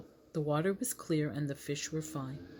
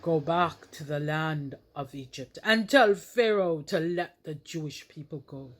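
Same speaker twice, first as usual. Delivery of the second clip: voice of God; 3 dB louder than usual. Acted. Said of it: "he heard a voice".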